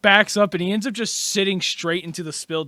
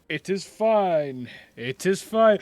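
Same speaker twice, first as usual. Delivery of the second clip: calm reassurance; slower than usual. Acted. Marquise keeps reassuring over the wailing.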